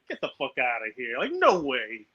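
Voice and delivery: quietly acted-out refusal to believe it; hushed disbelief. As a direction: say it under your voice, as if stunned. Disbelieving reply to weigh-in, acted.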